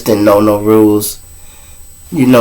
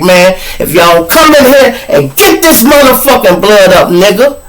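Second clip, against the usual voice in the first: retold yell; 8 semitones higher, 3 dB louder than usual. Yelling at cellmates over blood.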